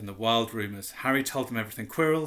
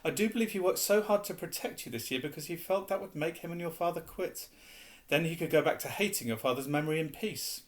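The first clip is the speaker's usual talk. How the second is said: put-on dreamy old wizard; 4 semitones higher than usual. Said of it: "Dumbledore dreamily".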